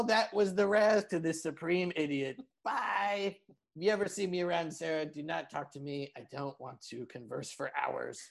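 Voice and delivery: lightly voiced insult comic; a hint of a smug roaster; roast comic Raz. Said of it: "insult roast comic, Raz Clifford".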